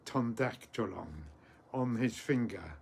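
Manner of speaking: deliberate phrase-by-phrase recital with long pauses; very slowly. Shown as a demonstration. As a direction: teach the verse slowly, piece by piece. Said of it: "I'll say it very slowly".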